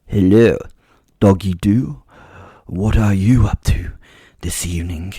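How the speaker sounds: a lightly voiced seductive posh vampire, teasing; Kate Beckinsale impression. Vampire lady taunting the eating werewolf, in a posh purr. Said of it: "A strangely sexy but sibilant voice gently".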